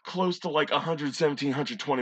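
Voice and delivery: loud California bro, hugely stretched vowel. Acted. Kid bragging about dad speeding, California voice. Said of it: "do this in a California voice".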